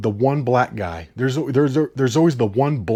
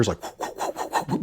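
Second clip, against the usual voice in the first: puffed whooshes of a spinning axe; whooshing axe noise; 5 semitones lower, 9 dB quieter than usual. Retold or imitated. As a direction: imitate an axe whirling through the air. Imitates axe whirling through air.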